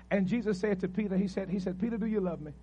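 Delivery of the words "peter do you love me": gentle question. Retold or imitated. Jesus voiced gently asking Peter.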